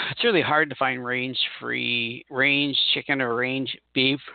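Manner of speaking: slow, yawning through words. Real, not acted. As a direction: talk while stifling a yawn. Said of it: "I'm yawning for some odd reason".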